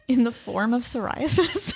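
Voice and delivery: laughing through a joke. Real, not acted. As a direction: say it while laughing.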